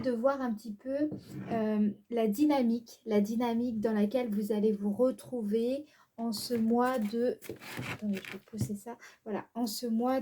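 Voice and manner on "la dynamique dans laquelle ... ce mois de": ordinary delivery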